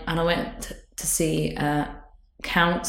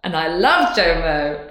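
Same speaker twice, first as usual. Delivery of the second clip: excited; 5 dB louder, slower than usual. Real, not acted. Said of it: "I was so excited".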